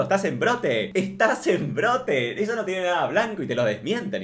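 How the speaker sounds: rag on her like she's hallucinating; teasing a customer over moldy cold cuts, mock rant; mock scolding rant. Mock scolding of a deluded shopper.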